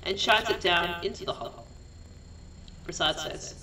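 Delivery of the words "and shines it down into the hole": measured stage-direction read; deliberate scene reading with pauses; script narration. A narrator's reading. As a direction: narrate the action phrase by phrase.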